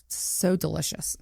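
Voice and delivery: whispered, slow and savouring; breathy whisper. Real, not acted. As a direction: breathe the words out, relishing them. Savouring memory of hot sex.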